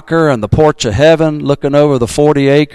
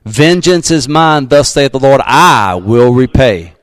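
slow, weighty scripture quote; slower than usual. Acted. Pastor warning church against revenge, slow weighty quote. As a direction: drop each word like a verdict.

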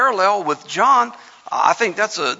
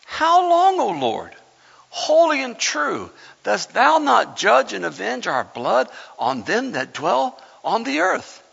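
mildly raised cry, drawing out the holy words; crying out to God; 2 semitones higher than usual. A narrator's reading. Preacher reads the martyrs' plea to God, crying out. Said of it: "cried with a loud voice".

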